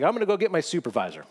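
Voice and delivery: quick, mildly flustered angel voice. Acted. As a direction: rush it out like a rattled official. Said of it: "Angel's getting flustered".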